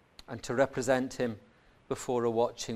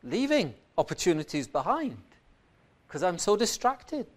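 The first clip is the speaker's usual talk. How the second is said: Paul's lament; 7 semitones higher than usual. Acted. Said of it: "says Paul".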